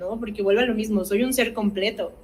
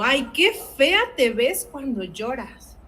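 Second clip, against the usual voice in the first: mocking adult; 3 semitones higher, slower than usual. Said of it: "Con palabras tan hirientes como".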